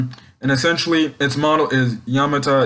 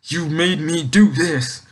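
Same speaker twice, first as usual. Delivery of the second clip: lightly crying villain; 3 semitones higher than usual. Retold or imitated. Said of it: "he's like".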